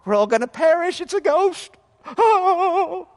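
high, loud mock terror; panicked Peter. Peter sees a ghost on the water, panicked and hammed-up. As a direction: ham up a frightened disciple. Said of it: "Peter went from".

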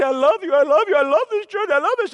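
high, loud sing-song church gusher; mock gushing churchgoer. Pastor mocking fickle churchgoers, hammed-up gushing. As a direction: ham up the fickle member's gushing. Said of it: "A lot of people say".

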